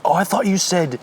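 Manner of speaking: high, mock-confused radio voice, slow on the question; bomber pilot. Joking to cohost about a clueless bomber pilot, high mock-confused voice. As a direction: play a clueless pilot misreading letters.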